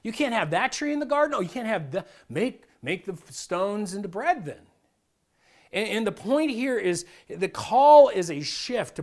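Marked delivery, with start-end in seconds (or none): 0.0-4.6 a touch of whiny, pitying tempter; victimhood attitude. Retold or imitated. Devil coaxing people to feel cheated by God, mildly whiny. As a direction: coax with fake sympathy, a bit higher. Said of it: "a victimhood attitude here".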